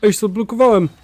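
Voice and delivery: frustrated shout. Real, not acted. Streamer stuck in game.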